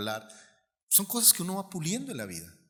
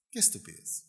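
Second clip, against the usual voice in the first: qué estupidez dropped low and soft; quiet repeat; 11 semitones lower, 9 dB quieter than usual. Shown as a demonstration. Pastor repeats his judgement on envy, quietly. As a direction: let qué estupidez fall away, almost to himself.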